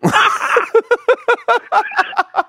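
high strained groan of a beaten man; pained groan. Retold or imitated. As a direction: groan like a gangster being hit. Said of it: "최민식 씨가 범죄와의 전쟁에서 맞으셨을 때 내는 소리".

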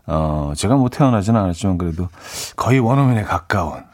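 ordinary delivery

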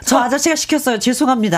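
like an anonymous voice-changed interview; voice changer effect. Shown as a demonstration. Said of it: "음성 변조 소리를 제가 그냥 내볼게요".

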